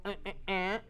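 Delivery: short, soft grunts, imitating a flustered clerk; impatient clerk noises. Clerk waiting on an undecided customer, impatient noises. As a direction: mimic a clerk's wordless fussing, quietly. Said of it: "the clerk is getting, like, all".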